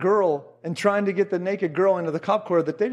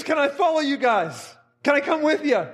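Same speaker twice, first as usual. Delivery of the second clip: retold eager plea; 5 semitones higher than usual. Overwhelmed convert begs to tag along.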